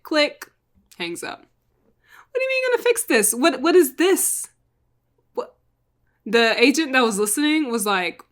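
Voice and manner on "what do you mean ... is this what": much higher, rushed, frantic; fast, high-pitched disbelief; panicked confusion. Retold or imitated. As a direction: blurt it out in alarm. Dante reacting to hang-up.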